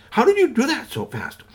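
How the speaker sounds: very high astonished question; amazed boy. Acted. Boy asking the robot, astonished and very high. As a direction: gape at the robot in wonder.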